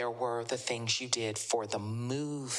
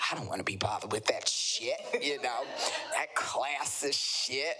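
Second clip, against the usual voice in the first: dismissive retort; 3 semitones lower than usual. Retold or imitated. Voicing his dismissive reply.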